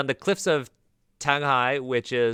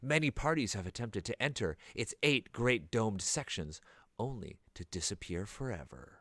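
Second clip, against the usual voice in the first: lightly voiced trailer announcer, slowed down; a hint of a dramatic trailer voice; movie trailer announcer. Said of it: "movie trailer announcer voice now?".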